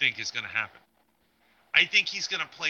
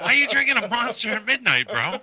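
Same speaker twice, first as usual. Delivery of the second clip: high, loud amused disbelief; incredulous, almost laughing; surprised; 9 semitones higher, 7 dB louder than usual. Real, not acted. Friend drinking Monster at midnight.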